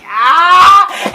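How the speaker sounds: a sudden high, loud cry of alarm; startled group shout. Retold or imitated. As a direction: shout "Ah!" like witches caught off guard. Witches surprised by intruder.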